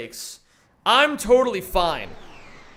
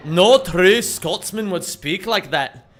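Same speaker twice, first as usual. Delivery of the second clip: put-on Scottish accent; 3 dB louder than usual. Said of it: "do that impression".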